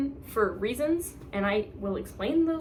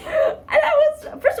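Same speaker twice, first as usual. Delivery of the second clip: excited squeal; 9 dB louder, slower than usual. Real, not acted. Excited squeal over author comment.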